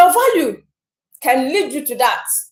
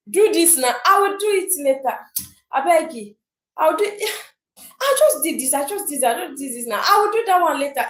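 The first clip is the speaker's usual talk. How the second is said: mock excuses; faster than usual. Voicing procrastinator's excuses.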